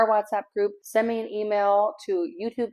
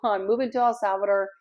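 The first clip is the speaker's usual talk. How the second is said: ordinary delivery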